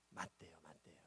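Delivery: whispered aside, very soft. Real, not acted. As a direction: drop to a whisper.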